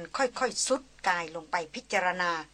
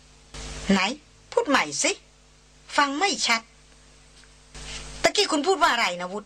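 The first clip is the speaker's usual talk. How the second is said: higher, louder, wide-eyed teasing; mock-surprised high voice; high-pitched cry; 5 semitones higher, 3 dB louder, slower than usual. A narrator's reading. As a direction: squeal it, pretending not to have heard. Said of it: "ร้องเสียงสูงว่า".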